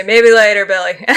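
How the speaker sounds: humoring him with a light laugh; amused, indulgent reply. Acted. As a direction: chuckle through a good-natured brush-off. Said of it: "people humor and laugh and say".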